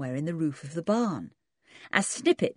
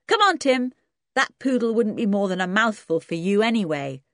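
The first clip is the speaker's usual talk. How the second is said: George to her dog; 5 semitones higher, 4 dB louder than usual. Acted.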